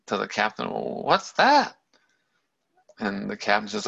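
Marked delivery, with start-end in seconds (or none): 0.7-1.8 startled questioning. Retold or imitated. Buddha to the captain at a sick person, startled. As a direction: voice a taken-aback prince. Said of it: "now he's really starting to freak out".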